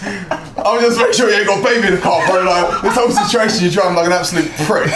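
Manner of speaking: high, heated mock scolding; retold telling-off. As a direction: re-enact laying into a bad driver. Acted roadside argument in a story.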